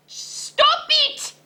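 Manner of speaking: high, loud cry of delight; laughing protest. A narrator's reading. Skipito overwhelmed by friends' dancing, loud laughing plea. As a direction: beg them to stop between laughs. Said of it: "said Skipito".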